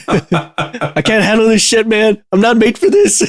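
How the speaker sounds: high, slow, whiny robot complaint; a robot at its breaking point; depressed robot voice. Acted.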